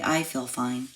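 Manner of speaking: ordinary talk, nothing marked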